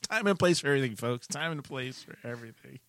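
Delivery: lightly voiced stern boss; boss impression. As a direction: lecture the staff like a boss. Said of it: "You like my boss impression?".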